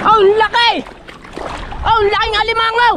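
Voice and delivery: high-pitched, excited marveling; amazed exclamation. Real, not acted. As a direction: marvel aloud at a huge catch. Amazed at a big crab.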